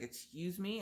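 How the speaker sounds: a hint of the huffy mother; offended excuse me. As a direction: imitate the mom taking offence. She plays the offended mom.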